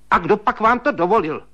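high, loud stern rebuke; stern scolding. A narrator's reading. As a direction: tear into him sternly. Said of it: "spustila přísně švagrová". (švagrová přísně a hlasitě hubuje)

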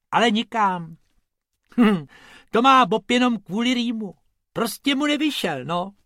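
high, loud little rabbit voice; Bobek explaining. Acted. Bobek explains to the tourists, high and loud. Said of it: "vysvětlil Bobek".

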